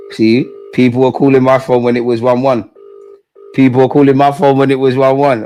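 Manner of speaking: loud mock outrage at callers; loud complaint. Real, not acted. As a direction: call out the people who rang. Complaining loudly about callers.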